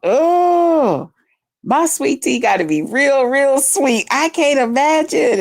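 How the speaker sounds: high, hammed-up imitation of a sweet tea lover; imitating Buddy Lee. Retelling what friend said about sweet tea, high mock voice. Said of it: "And so he was like".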